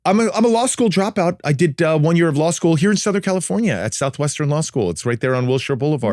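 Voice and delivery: mock news voiceover; tracking voice. Shown as a demonstration. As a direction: answer like a TV host. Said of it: "answer you in a tracking voice".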